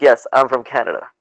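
emphatic "Yes", mildly exasperated; insistent. Retold or imitated. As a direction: retell confirming it to a doubter. Retold repeated answer to doubter.

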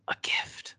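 a soft voiceless whisper of a small lizard. A narrator's reading. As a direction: breathe it out, barely voiced. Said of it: "the lizard whispered".

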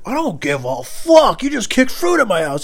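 high, loud mock yell, slow on the first line; hammed-up furious shout; yelling driver. Driver yells back.

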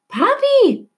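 put-on girl searching the riot for her father; calling out. A narrator's reading. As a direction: call again over the crowd.

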